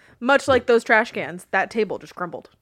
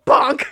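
bonk sound effect; 5 dB louder than usual. Retold or imitated. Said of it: "I just go".

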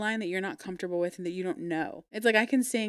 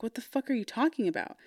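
higher-pitched exasperated comeback; exasperated retort; 4 semitones higher, faster than usual. Retold or imitated. Singer to the woman correcting the song, exasperated. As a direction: retell a baffled, fed-up retort without shouting. Retold argument over singing.

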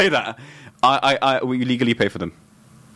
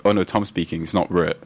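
mock bored listener; 6 semitones lower than usual. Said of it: "they're like".

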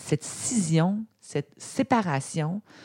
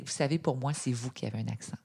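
much softer, low-key comeback; quiet retort; 4 semitones lower, 10 dB quieter, faster than usual. Retold or imitated. Tired passenger answering a taxi driver, quiet retort. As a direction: deliver a dry reply under your voice. Acts out her weary late-night reply.

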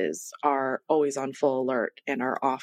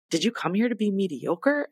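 higher-pitched coach's challenge, lightly acted; retold pep talk; 4 semitones higher than usual. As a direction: imitate an instructor pumping up a rider. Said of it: "pumping me up full of confidence".

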